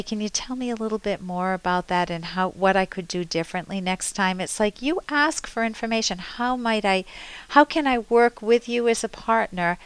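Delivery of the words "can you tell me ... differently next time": gentle question. Shown as a demonstration. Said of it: "And you say".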